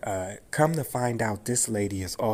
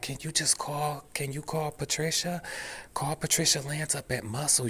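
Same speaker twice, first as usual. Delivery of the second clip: higher-pitched mock plea, mildly scared; retold scared plea; 6 semitones higher, 3 dB quieter than usual. Auditor redirecting caller to Patricia, mildly scared. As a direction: plead politely, a touch of nerves, in a higher voice. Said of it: "and she was scared".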